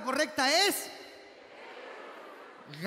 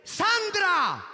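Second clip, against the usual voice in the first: husband shouting her name; 4 semitones higher, 4 dB louder than usual. Retold or imitated. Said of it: "mira a la mujer y le dice".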